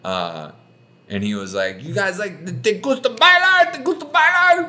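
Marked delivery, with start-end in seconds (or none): 1.8-4.7 chatty driver. Retold or imitated. Friendly driver chatting them up.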